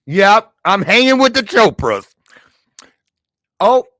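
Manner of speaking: loud, high, thrilled brag; excited. Real, not acted. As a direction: announce it like big news. Bragging reveal of a famous host.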